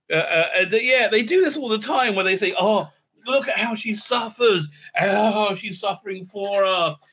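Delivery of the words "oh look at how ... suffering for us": mock weeping. Mocking show's reverent onlookers.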